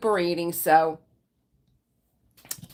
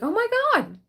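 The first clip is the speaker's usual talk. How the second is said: retold shock; 5 dB louder than usual. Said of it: "I was like".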